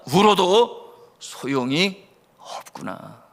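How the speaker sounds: slowly voiced realisation, drawn out; mild dawning resignation. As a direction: let it sink in slowly, lightly acted. Orphan's realisation acted, first take. (천천히 깨닫는 듯한 가벼운 체념)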